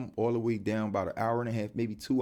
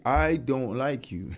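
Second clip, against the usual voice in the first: slow demo; 3 semitones higher, 4 dB louder, much slower than usual. Shown as a demonstration. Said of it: "It's not even hard to say".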